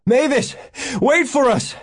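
high, urgent shout; loud high holler. A narrator's reading. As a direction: call out across a field to someone leaving. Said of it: "Alan shouted".

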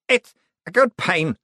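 high, feverish confiding voice; delirious confiding. A narrator's reading. Sick man confiding to the man before him, delirious. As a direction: confide it through a fever haze. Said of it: "the dripping man confided".

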